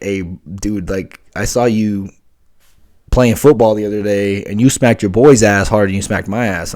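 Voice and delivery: yelling at him about an ass smack; imitated yelling. Partner yelling at him over a pat on the ass, mock yell. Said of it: "they're sitting there yelling at me".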